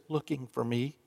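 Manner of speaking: put-on a small boy hushing so he isn't found; child whispering. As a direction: whisper it like a hiding little kid. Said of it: "Still whispering".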